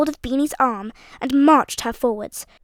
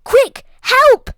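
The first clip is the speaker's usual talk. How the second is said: high, loud roar for help; 11 semitones higher, 10 dB louder than usual. A narrator's reading. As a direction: bellow for help. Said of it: "roared Uncle Felix's voice".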